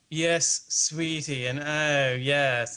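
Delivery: lightly affected English-leaning Australian; a hint of London affectation, drawn out; affected Sydney. Showing how Sydney people talk, affected. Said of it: "put more affectation that you were from England".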